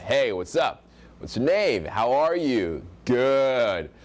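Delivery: firm falling ending on "What's your name?"; high value tonality. Shown as a demonstration. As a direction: drop the voice at the end of "How are you?". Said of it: "voice kinda goes down at the end".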